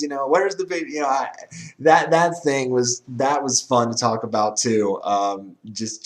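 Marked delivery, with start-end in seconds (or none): 0.3-0.9 imitating an excited radio call, higher-pitched; mock play-by-play excitement; excited announcer. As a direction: mimic a worked-up football announcer. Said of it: "have an announcer get that excited".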